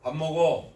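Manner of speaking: 밥 먹어 ending on a fall; 밥 먹어, pitch stepping down at the close; falling intonation. Shown as a demonstration. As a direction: say 밥 먹어 as a simple statement. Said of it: "이런 억양에 따라서".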